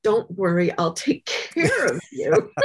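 put-on little girl gently reassuring her frightened mother; gentle reassurance. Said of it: "touch her mother's face very gently and say".

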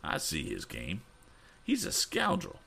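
put-on high, worked-up old gentleman; indignant Mr. Damon. A narrator's reading. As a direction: fume about the scoundrel, pitched high. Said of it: "cried Mister Damon".

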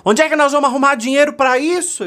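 high, loud exasperated demand; acted loud, high-pitched protest; alarmed questioner. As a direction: cry it out like someone panicking over money. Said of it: "quando alguém perguntar assim".

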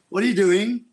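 ghostly Morrison tone. Retold or imitated. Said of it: "in that tone".

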